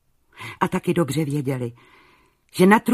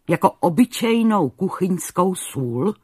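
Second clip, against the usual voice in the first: exclaimed; 3 semitones higher, 4 dB louder than usual. Acted. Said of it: "zvolal král".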